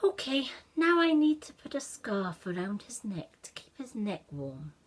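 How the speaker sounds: put-on busy child planning the next step; eager boy Ashton. Ashton plans the scarf.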